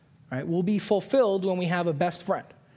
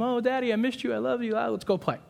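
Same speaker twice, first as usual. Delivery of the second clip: little daughter voice; 6 semitones higher, faster than usual. Retold or imitated. Daughter and kitten greeting dad.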